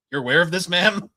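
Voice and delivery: a rising, stunned question to the clerk; incredulous question. Retold or imitated. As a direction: ask the clerk in mock shock.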